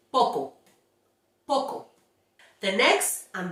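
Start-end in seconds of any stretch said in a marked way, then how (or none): 0.1-1.9 poco with pure short o; model Spanish. Shown as a demonstration. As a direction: poco ohne Gleitlaut. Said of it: "For example, we say".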